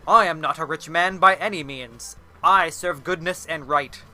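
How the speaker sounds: a touch of righteous offence; mildly aghast. Acted. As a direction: protest with noble indignation. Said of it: "Simon was aghast at this".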